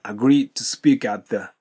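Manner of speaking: "agreed to speak at the" linked, no D heard in agreed; slow linking demo, D swallowed by to; silent D. Shown as a demonstration. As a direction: let agreed melt into "to speak at the". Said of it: "agreedのDの音が聞こえません".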